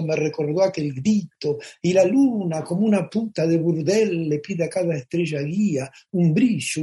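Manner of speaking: reciting translated lyrics in a running cadence; recited Spanish song lyrics. Acted. Singer recalls performing their Spanish version onstage, recited lyrics. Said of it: "cantaba en español ayornado una canción".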